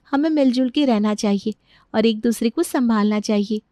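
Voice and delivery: lightly voiced, easing from reproach to appeal; admonishing daughter-in-law. Daughter-in-law asking Rita for harmony at home, gently reproachful. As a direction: reason with her, settling down. Janki admonishes, then reconciles.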